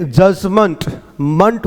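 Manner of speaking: जजमेंट with the last syllable said as "mant"; the end of जजमेंट said "mant", not "ment"; correct pronunciation. Shown as a demonstration. Teacher shows students that जजमेंट ends in "mant". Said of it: "मेंट नहीं होता".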